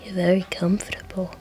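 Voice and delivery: soft, drowsy murmur; drunkish sleepy Crowley. Acted. Sleepy drunk nestling against your neck, soft and drowsy. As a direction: murmur lazily, nearly asleep. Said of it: "sleepy-ish Crowley".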